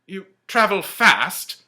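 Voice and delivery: high, loud wondering question; lightly voiced Scrooge. Scrooge questions the ghost, high and wondering. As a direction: ask in disbelief.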